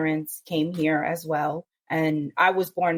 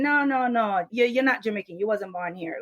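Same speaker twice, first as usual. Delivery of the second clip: higher, light Jamaican patois scolding; Jamaican patois quote; 3 semitones higher than usual. Retold or imitated. Jamaican relatives telling her off in light Jamaican patois. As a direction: insist in a mock Jamaican patois that she's not Jamaican. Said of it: "Jamaican people saying".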